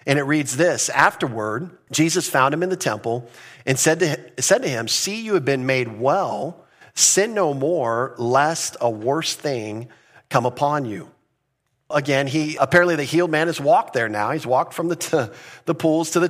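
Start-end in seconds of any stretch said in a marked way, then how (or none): 0.9-11.1 slow, measured reading of the verse; scripture reading. Acted. Pastor reading the verse to his congregation, slow and solemn. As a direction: read the verse slowly and solemnly.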